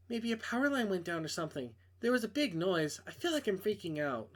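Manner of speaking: a hint of a nervous young woman; girl voice. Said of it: "I can't do girl voices".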